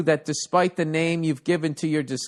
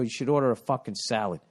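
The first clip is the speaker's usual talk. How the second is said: inner voice advice; 4 semitones lower, 4 dB quieter than usual. Retold or imitated. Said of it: "I should go".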